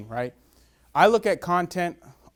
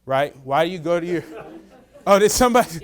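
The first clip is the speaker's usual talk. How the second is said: breaking into laughter mid-sentence; laughing surprised question; 3 semitones higher, 7 dB louder than usual. Real, not acted. Interrupted mid-example, laughing.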